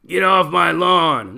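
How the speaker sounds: Clint Eastwood line. Retold or imitated. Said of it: "that movie with Clint Eastwood".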